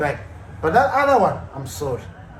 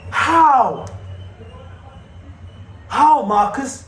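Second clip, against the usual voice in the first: exasperated how; 4 semitones higher than usual. Real, not acted. Angry rant at Rashford.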